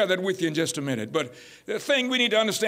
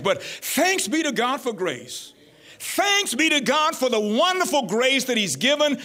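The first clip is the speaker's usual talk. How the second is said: emphatic preacher giving thanks; exultant preaching; 5 semitones higher than usual. Real, not acted. Preacher thanking God before the congregation, exultant preaching. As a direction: lift the praise, stressing key words.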